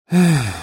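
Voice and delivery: heavy sigh. A narrator's reading. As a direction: let out a weary sigh. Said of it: "вздохнула Маша".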